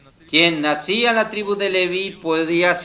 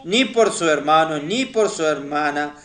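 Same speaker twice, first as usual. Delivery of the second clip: scripture reading; 4 dB louder than usual. Acted. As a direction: read the verse out phrase by phrase, drawing out key words. Reads Numbers verse aloud to congregation. (lectura bíblica solemne y pausada)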